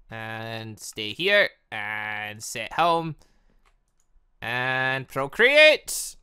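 very slow, drawn-out mock commands; mock solemn orders. Father ordering his son to stay and procreate, slow mock solemn. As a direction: intone each order like a decree.

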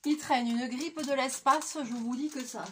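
raspy voice, sick with flu; talking through a bad flu; hoarse voice. Real, not acted. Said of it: "j'ai la voix pétée".

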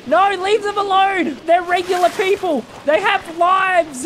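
high, pleading protest; mock outraged plea. Real, not acted. Gamer begging enemies to spare the villagers, high mock protest. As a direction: beg them to stop, half-joking.

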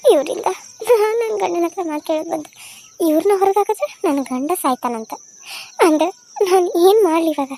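half-crying, helpless and upset; tearful lament. Acted. Saroja laments, crying heard. (ಅಸಹಾಯಕ ಹೆಂಡತಿಯ ಅಳುಮುಖದ ಧ್ವನಿ)

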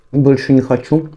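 usual speaking voice

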